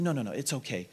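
gentle reassurance. Retold or imitated. Director to apologetic visitors, softly reassuring. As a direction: reassure them quietly, as retold.

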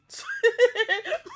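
high burst of loud laughter. Real, not acted. Bursting out laughing at Sophia crying. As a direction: explode into laughter. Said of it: "I wan burst laugh".

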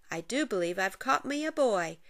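a hint of a crafty leprechaun; grinning leprechaun. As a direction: gloat like a pleased little trickster. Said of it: "with a grin".

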